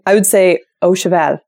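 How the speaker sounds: Au Cheval with the al stretched at the end; Canadian French pronunciation. Shown as a demonstration. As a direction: Au Cheval as oh shvahl, Quebec style.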